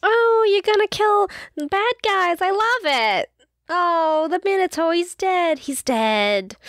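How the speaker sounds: high-pitched, drawn-out cartoon mom voice; Linda Belcher. Percy's mom cheering on monster killing, high cartoon impression. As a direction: gush in a high, whooping mom voice. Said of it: "Percy's mom is just Linda Belcher".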